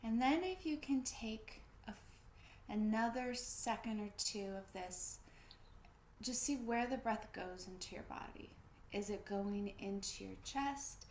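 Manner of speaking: calm body-awareness guidance with pauses; guided breathing. Real, not acted. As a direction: guide them gently to notice the breath.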